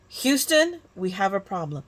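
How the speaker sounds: put-on a faint, half-hearted Boston accent on a famous line; playful amateur Boston accent, barely there; bad Boston accent. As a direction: try a Boston accent and mostly miss. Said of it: "not a very big, very good Boston, um, accent".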